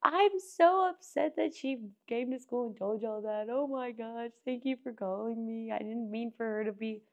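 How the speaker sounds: 恐縮した母親の小さめの声; hushed, apologetic mother; flustered mom. Retold or imitated. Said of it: "And she was like".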